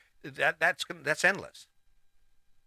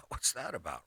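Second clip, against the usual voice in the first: surprised wife; 7 dB quieter than usual. Retold or imitated. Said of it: "She'd be like".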